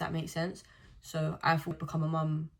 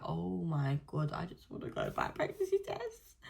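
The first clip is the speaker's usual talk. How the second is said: exasperated; 3 dB quieter, slower than usual. Retold or imitated. Exasperated during street brawl.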